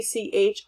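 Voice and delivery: "ch" as a voiceless puff with no vowel; isolated ch sound. Shown as a demonstration. Teacher shows what T C H makes, isolated "ch". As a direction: sound out "ch" alone and short. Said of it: "to make the ch sound".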